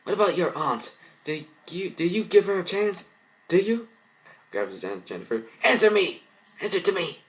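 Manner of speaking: high, loud furious demands; blind rage. Acted. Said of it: "Lenny, blind by rage".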